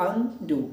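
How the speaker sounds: अनडू slowly, split after अन; separate syllable. Shown as a demonstration. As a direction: say अनडू as अन, short break, डू. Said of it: "अन is a separate syllable". (अनडू में अन अलग, फिर डू)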